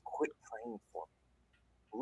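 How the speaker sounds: lightly voiced demonic growl, slow; deep guttural voice. Possessed patient warning the praying nurse, slow mock guttural voice. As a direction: drag it out slowly like a possessed man, a hint of menace. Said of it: "in this really deep guttural voice".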